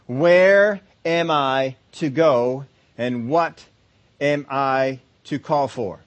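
slow, searching questions to God; a believer seeking direction, slowly; humble prayer. Retold or imitated. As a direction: ask sincerely and unhurried. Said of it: "Faith says".

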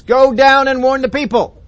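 booming command. Acted. God ordering Moses back down, booming. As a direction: boss Moses around.

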